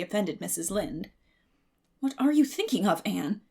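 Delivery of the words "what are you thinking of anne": louder, sharp question. A narrator's reading. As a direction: snap it at her. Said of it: "she asked sharply".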